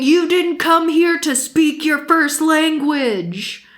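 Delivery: high-pitched retold tirade; mock outburst. Angry mom scolding two Spanish speakers, mock outburst. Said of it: "loses her shit going".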